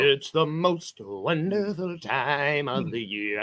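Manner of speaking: lightly voiced little elf; sing-song little elf, slow; christmas elf. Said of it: "I said it like a little elf".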